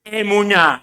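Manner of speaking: "emuná" spelled out by voice, ending on a stressed "ná"; model pronunciation. Shown as a demonstration. Preacher says it with the congregation, clearly modelled "emuná". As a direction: lead the group in saying "emuná" clearly. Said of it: "Repítalo conmigo".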